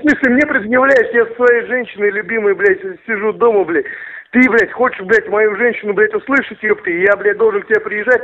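angry thug rant. Acted. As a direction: raise the pitch and rant at him. Furious at caller asking for wife.

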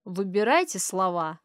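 big man's loud warning; a bear of a man warning her off. Acted. Burly father warns the mother to choose her words, loudly. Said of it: "басит широкоплечья фигура мужчины".

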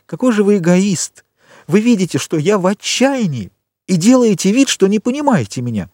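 put-on an offended girl near tears; indignant young woman. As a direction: accuse him of selfishness. Valentine reproaches him.

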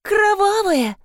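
very high put-on voice; spooky exclaim. A narrator's reading. Richi adds a dramatic note about the stain, very high spooky voice. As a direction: play it up like a horror reveal. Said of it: "добавила Ричи".

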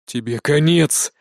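slow, menacing hissed threat; angry hiss. A narrator's reading. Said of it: "злобно прошипел Невзоров".

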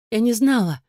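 put-on high, timid child's voice; a scared little girl excusing herself; frightened girl. A narrator's reading. Frightened girl answers stepmother. (испуганно, тонким детским голосом)

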